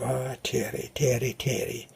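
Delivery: lightly voiced Irishman's lilt; Irish brogue. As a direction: imitate an Irish priest gently chiding. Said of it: "speaking with an Irish brogue".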